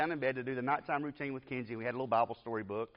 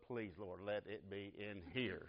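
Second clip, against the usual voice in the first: quick prayer; 4 semitones lower, 11 dB quieter, slower than usual. Retold or imitated. Silent prayer for proof.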